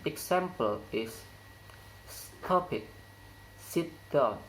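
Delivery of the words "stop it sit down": "Stop" and "down" each said with a falling tune; falling intonation. Shown as a demonstration. Teacher models commands for English learners, falling intonation. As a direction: imperative with the pitch dropping on "down". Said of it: "falling intonation occurs in word".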